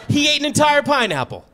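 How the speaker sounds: high, loud incredulous shout; mock disbelief. Comedian reacting to the pineapple husband, loud incredulous. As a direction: act stunned at the news. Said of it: "And I go".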